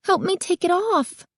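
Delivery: put-on high, urgent girl's shout; girl demanding the owner remove the mask; insistent shout. A narrator's reading. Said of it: "insisted, shouting".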